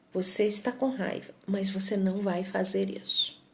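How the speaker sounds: put-on soft, steady limit for an angry child; quiet firmness, gentle but unbending; firm but tender. Shown as a demonstration. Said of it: "falando com firmeza, mas com carinho". (com firmeza e carinho, em voz baixa)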